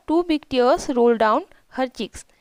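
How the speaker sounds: slow, careful read of each English word; slow reading aloud. Shown as a demonstration. Teacher reading the English story line to her pupils, slow and careful. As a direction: read it out slowly for the class.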